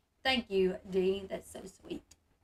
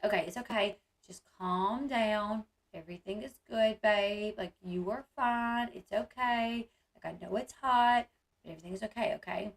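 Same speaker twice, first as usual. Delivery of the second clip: soothing; 3 dB quieter than usual. Retold or imitated. Calming her panicking son.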